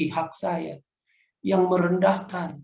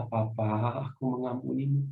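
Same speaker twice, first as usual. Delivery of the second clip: soft, faltering words to his father; choked, halting forgiveness; haltingly; 3 semitones lower, 5 dB quieter than usual. Retold or imitated. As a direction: stumble through it, barely able to say it. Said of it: "Dengan terbata-bata saya berkata".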